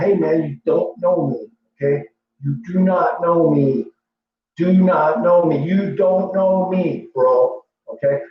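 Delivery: slow, firm insistence on "You don't know me"; firm warning. Retold or imitated. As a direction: stress on not in "You do not know me". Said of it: "So I would always tell him".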